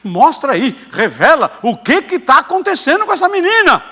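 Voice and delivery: building to a loud, high plea; imploring prayer. Retold or imitated. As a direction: beg God out loud for an answer. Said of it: "Eu comecei a falar". (súplica a Deus, num crescendo)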